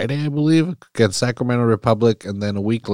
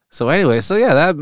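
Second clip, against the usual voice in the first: laughing; 9 semitones higher, 4 dB louder than usual. Real, not acted. Laughs after joke.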